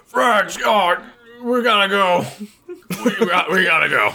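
urgent call to friends. Acted. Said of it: "be like".

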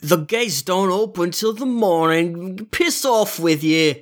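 lightly voiced grumpy guard; a hint of a surly gatekeeper; dismissive guard. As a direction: brush them off, slow and surly. Guard refuses the party.

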